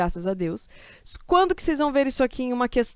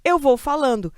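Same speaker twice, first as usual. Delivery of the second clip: stammering. Shown as a demonstration. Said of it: "como se eu fosse uma gaga".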